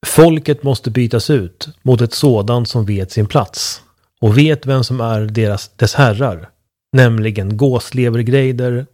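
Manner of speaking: slow, measured reading, line by line; verse recital. Real, not acted. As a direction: read out a verse with weighty pauses. Reads a reply written as verse. (långsam versuppläsning)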